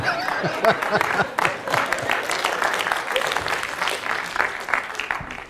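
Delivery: a long airy unvoiced laugh, rising; breathy laugh. Real, not acted. Comedian to the audience, a long breathy laugh. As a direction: laugh silently at the audience's reaction. Laughing at his own story.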